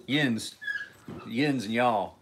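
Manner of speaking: "yins" said with a nasal vowel, yinz, falling; teaching viewers "yins" and "y'all" as back home words; back home dialect. Shown as a demonstration. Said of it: "That's back home talk".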